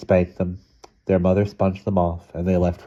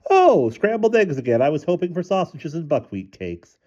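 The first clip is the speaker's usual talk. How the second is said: mild; 9 semitones higher than usual. A narrator's reading. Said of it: "He said mildly".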